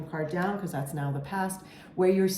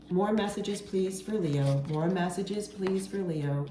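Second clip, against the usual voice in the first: calling for messages; 3 semitones higher than usual. Real, not acted. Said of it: "I'm gonna pull another tarot card".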